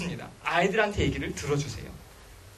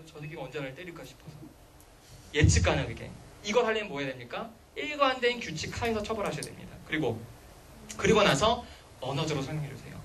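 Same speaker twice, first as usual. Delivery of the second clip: ordinary delivery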